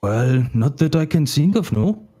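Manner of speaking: a hint of an Indian-sounding accent. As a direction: wagon driver with a slightly Indian-sounding accent. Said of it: "now it's sounding like it's Indian".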